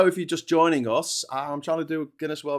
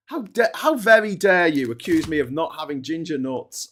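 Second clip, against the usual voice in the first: raised, louder mock indignation; mock outrage; 4 semitones higher, 6 dB louder than usual. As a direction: act deeply offended by the accusation.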